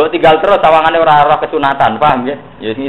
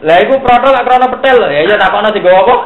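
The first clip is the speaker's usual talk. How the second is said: laughing joke; 7 semitones higher, 6 dB louder than usual. Real, not acted. Jokes about the axe.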